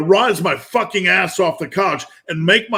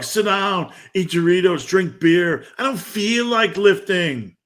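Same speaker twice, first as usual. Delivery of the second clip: higher, coaxing voice of the couch; lazy inner voice; 3 semitones higher than usual. Retold or imitated. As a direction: tempt yourself to quit like a lazy inner voice. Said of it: "a voice in your head telling you to sit down".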